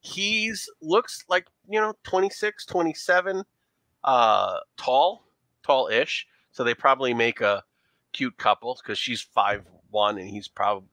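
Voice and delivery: put-on leaning into a thick New York accent; a New York showgirl playing up her accent. Showgirl answering detectives about her boyfriend, in a New York accent. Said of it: "our New York accent when we lean into it".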